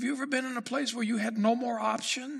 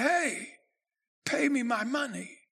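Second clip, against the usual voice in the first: rough demand; 2 semitones higher than usual. Acted. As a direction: bark it at the man you're choking. Servant grabs debtor by throat.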